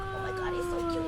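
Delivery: high, excited cooing; gushing. Retold or imitated. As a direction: squeal it like you just saw a piglet. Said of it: "I was like".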